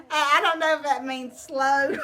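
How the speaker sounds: laughing while joking; real laughter. Real, not acted. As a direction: giggle through the words. Laughing at own joke.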